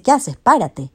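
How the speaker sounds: high, loud acted alarm; storyteller voicing a flustered objection; startled protest. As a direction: cut him off, startled and urgent. Alarmed reply to a proposal.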